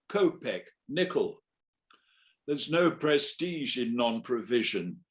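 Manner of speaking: dramatic verse reading with rhetorical questions; sonnet recital. Acted. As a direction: recite in separate, pointed phrases, pausing between them.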